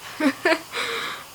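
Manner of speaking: high, soft giggle; laughing. Real, not acted. Hearing laptop sound odd played back, amused giggle.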